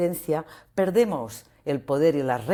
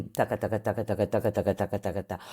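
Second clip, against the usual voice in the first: flat, lower and softer droning repetition; monotone imitation; 4 semitones lower, 3 dB quieter, faster than usual. Shown as a demonstration. Speaker shows the grey voice, monotone droning. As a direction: drone it like a machine with no tune. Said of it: "Esto es el color gris".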